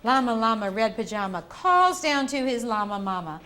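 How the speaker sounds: slow, sing-song storybook reading; reading to a toddler. Acted. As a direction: read it gently to little kids. Reading picture book to children.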